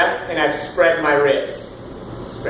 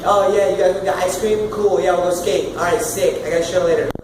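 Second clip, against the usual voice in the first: casual unprojected chatter; old casual voice; 4 semitones higher than usual. Shown as a demonstration. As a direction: toss it off like a laid-back teen. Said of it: "I kinda used to talk like this".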